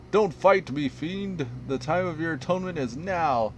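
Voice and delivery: righteous inquisitor shout. Acted. Inquisitor proclaiming judgment on the mayor, loud zealous shout. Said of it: "And then he says".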